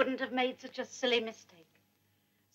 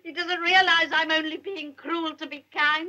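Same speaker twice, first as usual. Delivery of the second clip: tearful sob; 3 semitones higher than usual. Acted. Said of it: "I'm going to cry again".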